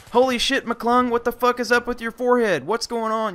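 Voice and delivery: mock-alarmed drill sergeant bursting out; shocked platoon sergeant.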